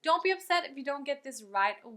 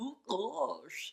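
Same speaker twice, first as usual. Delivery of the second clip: rough, rasping cartoon voice from a lowered larynx; 5 dB quieter than usual. Showing a larynx-lowering sound like a cartoon character: Goofy voice. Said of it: "the sound of Goofy".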